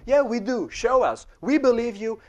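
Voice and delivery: mock crowd cheering him on. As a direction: call it out like an excited crowd.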